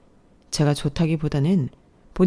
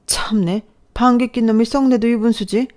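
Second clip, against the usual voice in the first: indignant scoff; 4 semitones higher than usual. Acted. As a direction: spit it back in disbelief. Mother-in-law's indignant retort in quarrel.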